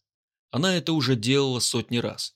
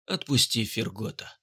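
melancholic; 3 dB quieter than usual. Acted. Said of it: "меланхолично произнёс он".

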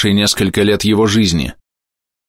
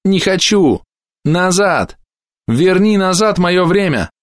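high, breaking cry of despair; desperate shout; 11 semitones higher, slower than usual. A narrator's reading. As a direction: wail it, close to tears. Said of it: "Он кричал что-то ещё, захлёбываясь слезами". (крик сквозь слёзы)

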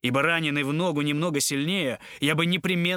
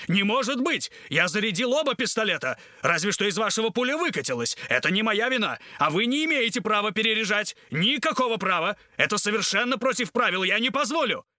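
the captain yelling in outrage at the doctor; flustered captain protests at the top of his voice; shouting; 6 semitones higher than usual. A narrator's reading. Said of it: "кричал капитан".

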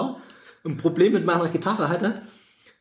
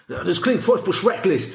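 put-on American accent in German; 4 semitones higher than usual. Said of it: "Leute mit amerikanischen Akzent".

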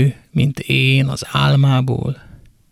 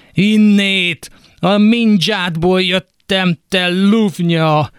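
higher, spat-out accusation, last words slowed; bitter curse; 5 semitones higher than usual. Acted. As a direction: hurl it at her. Son curses his mother.

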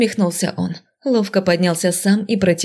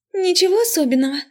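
high, meek little squeak; pitiful squeak; 12 semitones higher, faster than usual. Acted. Pinned-down girl answering the mage, pitiful high squeak. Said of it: "жалко пропищала я".

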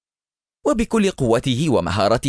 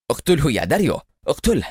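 higher, eager shout rising on داريو; eager yell; 5 semitones higher than usual. Acted. Eliezer again urging his driver to kill, eager yell. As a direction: urge him on, desperate. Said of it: "وصرخ إليعازر في لهفة".

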